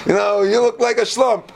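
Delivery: high-pitched, hammed-up scolding wife; mock nagging. Wife insulting her husband, mock nagging.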